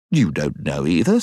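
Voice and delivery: sharp indignant retort. Acted. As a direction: snap back, offended. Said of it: "said Jill indignantly".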